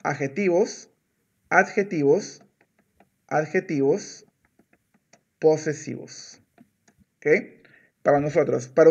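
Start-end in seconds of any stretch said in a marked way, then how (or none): 0.0-6.4 slow model. Shown as a demonstration. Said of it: "para nosotros es adjetivos posesivos".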